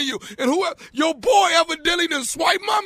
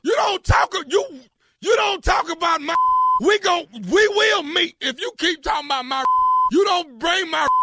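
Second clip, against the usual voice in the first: staged angry shouting; 4 semitones higher than usual. Pretend. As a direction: yell like you're ready to fight. Prank call, faked angry confrontation.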